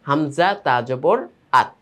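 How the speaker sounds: drawn-out letter names, then a short joined "আত"; joined spelling drill. Shown as a demonstration. Teacher repeats the joining, slow spelling before a single-syllable "আত". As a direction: slowly spell "হামজা তা জবর", pause, then blend "আত". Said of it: "মিলে গেল সংযুক্ত".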